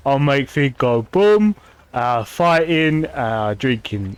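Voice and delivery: slow, halting dumb orc in Common; lightly voiced simple brute, slowing and trailing off; dumb orc speaking Common. Streamer voicing her orc in Common, slow lightly voiced dumb orc. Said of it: "when he's speaking common".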